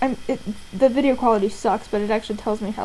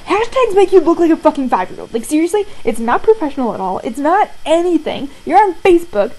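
louder, emphatic exasperated rant; retold indignant scolding; 3 semitones higher, 5 dB louder than usual. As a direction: scold him loudly in disbelief. Scolding friend over hashtags, retold.

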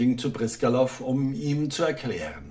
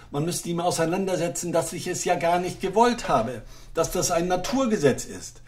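higher, anxious apologizing voice; nervous little official begging; timid clerk; 5 semitones higher than usual. Acted.

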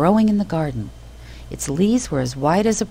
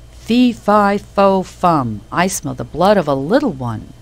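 loud booming giant chant; roaring giant; 2 semitones higher, 5 dB louder than usual. A narrator's reading. Giant sniffing the room for Jack, loud roar. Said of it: "roared the giant".

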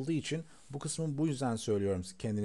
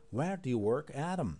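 slow. Shown as a demonstration. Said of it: "Bakın burada yavaş soralım önce".

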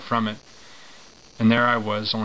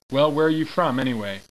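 put-on sergeant voice, no accent; 4 semitones higher than usual. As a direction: bark it like a sergeant without the British sound. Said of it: "I should be doing this in a British accent".

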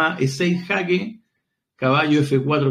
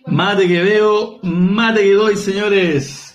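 slow, louder, declaiming the saying; proud proclamation; 2 semitones higher, 5 dB louder, much slower than usual. Real, not acted. Commentator proclaiming the mate to the viewers, triumphant. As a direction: announce it like a triumphant motto.

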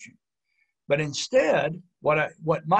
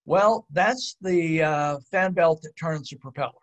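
very calmly; 4 dB louder than usual. Retold or imitated. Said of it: "very calmly say".

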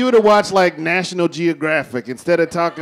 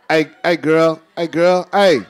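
catcalling. Acted. Men calling out to a woman.

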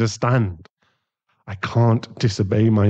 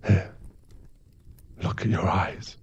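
whispering; 9 dB quieter than usual. Acted. Quietly handing her a mirror.

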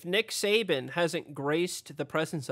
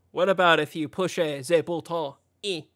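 mock French accent. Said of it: "should I switch to France".

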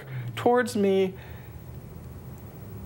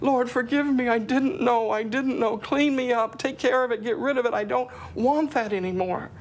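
higher voice pleading through tears; tearful plea; 4 semitones higher than usual. Retold or imitated. Sobbing in the park, a higher tearful plea. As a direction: beg to be made clean. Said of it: "I was just sobbing".

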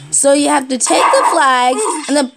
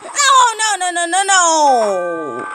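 wailed dismay; 2 semitones higher, much slower than usual. Real, not acted. Defeated while pleading.

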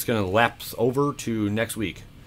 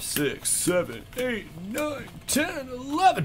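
rising excitement; 4 dB quieter, slower than usual. Real, not acted. Counting the rolls, building excitement.

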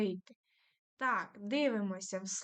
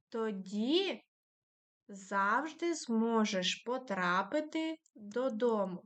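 slow reading aloud. Shown as a demonstration. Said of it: "читаємо разом".

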